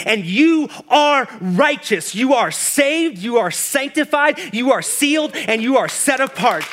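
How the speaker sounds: emphatic, rhythmic list of affirmations; full-force preaching. Acted. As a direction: proclaim each blessing to a building climax. Preaches a rising list as God's words.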